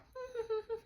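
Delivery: soft, very high string of little pulses; high giggly noise. Retold or imitated. Reader mimicking Jason in the gold house, high soft titter. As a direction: imitate a clueless, quiet titter. Imitates Jason's clueless response.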